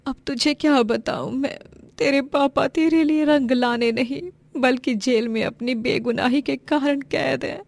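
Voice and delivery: a touch of helpless grief; sorrowful mother. Acted. Mother grieves over jailed husband. (हल्की दुखी, बेबस माँ)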